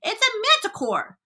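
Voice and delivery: high, excited crowd cries; alarmed shouting. A narrator's reading. Policemen and firemen guess at the monster, shouting. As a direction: toss out high cries like several panicked men. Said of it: "all started shouting at once".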